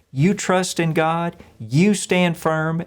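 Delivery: slow, firm encouragement; steady the crowd, unhurried; encouraging Moses. Retold or imitated. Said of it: "He's encouraging the people".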